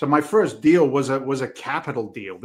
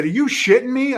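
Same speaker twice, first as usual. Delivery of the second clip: much higher and louder, retold disbelief; stunned disbelief; 11 semitones higher, 6 dB louder than usual. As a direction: play the friend's shocked outburst. Friend stunned by early payback.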